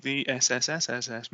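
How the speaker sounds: S S S S S stretched for importance; drawn-out s like a snake. Acted. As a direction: draw out every S. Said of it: "makes it sound more important".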